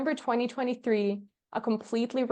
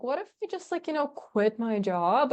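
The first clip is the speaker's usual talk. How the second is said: casual suggestion; 3 semitones higher than usual. Retold or imitated. Wife casually floats quitting to her husband, tentative and casual. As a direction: float the idea lightly. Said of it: "just casually with my husband".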